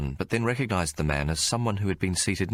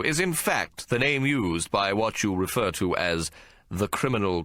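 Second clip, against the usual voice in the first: a lightly voiced barrister, a touch higher and measured; barrister's questioning; 4 semitones higher than usual. Barrister cross-examining the policeman, lightly voiced and measured. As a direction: press the witness with courtroom poise.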